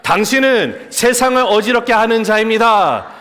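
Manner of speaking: loud, emphatic pronouncement; heartfelt declaration. Shown as a demonstration. Preacher leading the congregation to tell their neighbours, loud and sincere. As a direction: proclaim it with full conviction. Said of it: "진심을 담아서 좀 얘기 솔직하게 해보세요".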